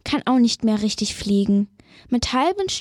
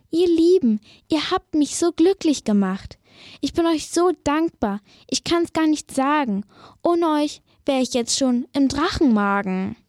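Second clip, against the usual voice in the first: grateful witch; 4 semitones higher than usual. Acted. Witch thanking her rescuers.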